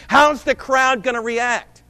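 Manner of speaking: mock the crowd-pleasing preacher, loud and slow; mocking shout. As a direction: throw out their question loudly, slowly. Preacher mocks other preachers' question.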